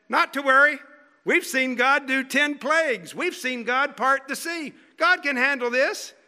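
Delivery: hammed-up "no problem" faith; mock confident crowd. Preacher mocking what the people should have said, sarcastic.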